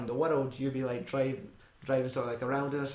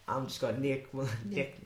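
bad southern accent; 3 dB quieter than usual. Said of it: "that was a real terrible southern accent".

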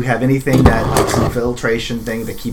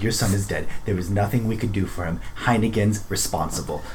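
soft, subdued delivery; grave; 3 semitones lower, 8 dB quieter than usual. Acted. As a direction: break terrible news quietly. Breaking news of son's death.

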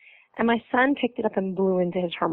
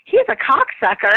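put-on higher, louder kid's voice; toddler's blunt retort; 9 semitones higher, 4 dB louder than usual. Son to the pediatrician, lightly voiced toddler blurt. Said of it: "my son looked at her and goes".

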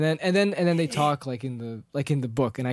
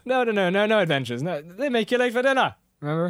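fussy Bilbo; 5 semitones higher, 3 dB louder than usual. Retold or imitated. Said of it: "Bilbo's like".

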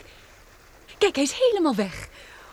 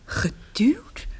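shocked whisper. Acted. Shocked at revelation.

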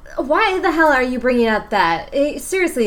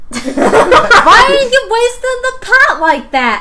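high laughing slow question; 13 semitones higher, 11 dB louder, slower than usual. Real, not acted. Player laughing at Skid wasting pot. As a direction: laugh through the words.

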